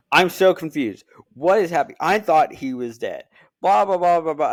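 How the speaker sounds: imitating a confused partner, hammed-up; mock confused girlfriend. Girlfriend quoted complaining.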